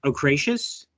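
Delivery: "ochraceous" as oh-KRAY-shus, questioning; tentative pronunciation. Shown as a demonstration. Answering how the colour word is pronounced, tentative pronunciation. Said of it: "how do you pronounce that".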